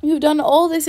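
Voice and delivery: heated, rising accusation; with energy. Acted. Elizabeth defending Wickham against Darcy, heated and energetic. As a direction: throw the charges at him one by one. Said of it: "cried Elizabeth with energy".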